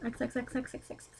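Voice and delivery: whispered. Acted. Whispered sign-off kisses.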